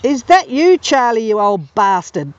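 high, squawky parrot line dragging slow at the end; cheeky bird calling out to an old friend. Retold or imitated. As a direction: mimic the old cockatoo greeting him. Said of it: "the voice said".

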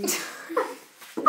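normal talking voice

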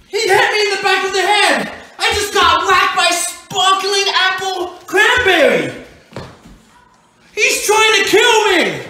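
outraged, drawn-out complaint; indignant exclamation. Acted. Dad tells child the elf hit him, aghast.

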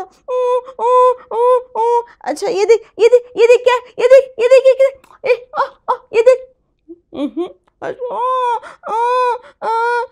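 very high, loud coaxing; high baby talk. Acted. Boy coaxing his crying brother in high baby talk. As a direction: coax the baby to look.

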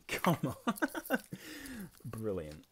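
real laughing come on; laughing disbelief. Real, not acted. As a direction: protest through giggles. Laughing at a lucky roll.

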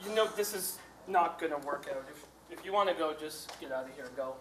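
low, soft, deflated; subdued resignation. Acted. Man telling partner to go, quiet resignation. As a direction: let the fight drain away, voice dropping.

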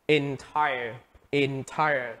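entire with TIRE stressed; stress on second syllable. Shown as a demonstration. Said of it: "nhấn vào âm thứ hai".

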